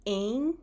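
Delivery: Em said as nasal e. Shown as a demonstration. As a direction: hum the Em through the nose. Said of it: "The next nasal vowel is em".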